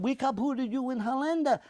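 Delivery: imitating a German veteran, high and loud; German accent. German veteran gloats again.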